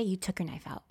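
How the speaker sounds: whispered reminder to herself; self-talk whisper. Retold or imitated. Reassuring herself about the knife, whispered. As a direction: whisper it under your breath.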